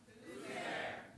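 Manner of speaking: unvoiced whisper of the listener; whispered reply. Comedian whispers the listener's half of a knock-knock joke. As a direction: whisper it back like the other side of the door.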